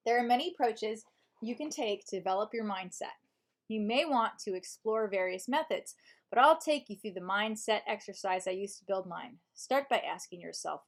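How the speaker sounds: measured audiobook narration; audiobook reading. Shown as a demonstration. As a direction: read the self-help book aloud as a narrator. Reads book in audiobook voice.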